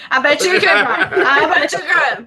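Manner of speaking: loud teasing through laughter. Pretend. Guest teasing the host about his dirty joke, laughing.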